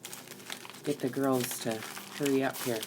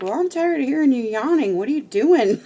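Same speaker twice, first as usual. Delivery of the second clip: much higher and louder, laughing through the end; mock fed-up husband; 11 semitones higher, 11 dB louder than usual. Wife imitating husband complaining about her yawning, laughing mock exasperation. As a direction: ham up his exasperation with a laugh breaking in. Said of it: "He's like".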